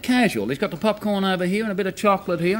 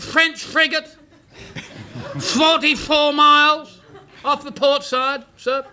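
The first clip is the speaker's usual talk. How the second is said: laughing report; 5 semitones higher, slower than usual. Acted.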